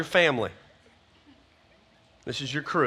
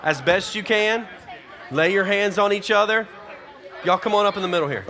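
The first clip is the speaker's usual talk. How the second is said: higher, louder call over the crowd; raised instruction; 6 semitones higher, 5 dB louder than usual. Real, not acted. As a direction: project so the whole room hears. Directing crowd over the noise.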